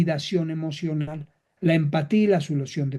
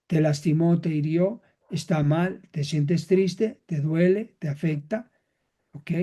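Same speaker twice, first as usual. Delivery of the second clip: validating, calm. Shown as a demonstration. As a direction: gently acknowledge the child's pain. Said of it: "¿Cómo le hago?".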